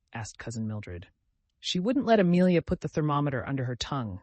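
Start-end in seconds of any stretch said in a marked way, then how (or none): 1.6-4.2 whimpering. Acted. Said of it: "whimpered Cousin Stickles".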